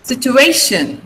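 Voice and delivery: Situation said situ-A-tion; stress on A. Shown as a demonstration. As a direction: put the weight on the A in Situation. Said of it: "A is stressed".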